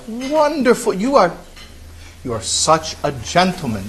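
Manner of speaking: lightly voiced old lady.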